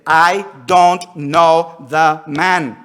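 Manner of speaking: loud, very slow sworn denial; oath. Acted. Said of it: "with an oath".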